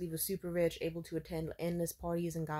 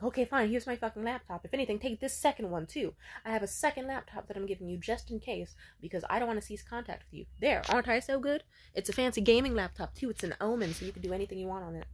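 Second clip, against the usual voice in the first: a touch higher and louder, grudging then showing off; grudging boastful ex; 4 semitones higher, 5 dB louder than usual. Retold or imitated. Jealous ex Morgan outbidding a rival with laptops, mildly hammed-up. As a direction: toss off the gift, then fish for praise.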